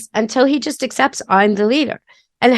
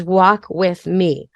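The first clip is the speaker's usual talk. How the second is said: slow calm command; 3 semitones lower, much slower than usual. Shown as a demonstration. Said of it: "a command that means".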